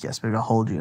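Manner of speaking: soft, gentle retold comforting; tender reassurance. Dad to his crying daughter, tender. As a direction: soothe a small child quietly.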